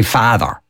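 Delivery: FATHER said slowly with a long open AH; "father" low and unhurried; slow drawn-out vowel. Shown as a demonstration. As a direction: stretch the first vowel of "father". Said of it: "slow way of saying my".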